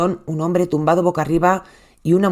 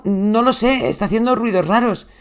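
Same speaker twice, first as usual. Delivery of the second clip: panicked plea; 4 semitones higher than usual. Retold or imitated. Husband begging the 911 operator, frantic. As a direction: voice raised, frantic and pleading.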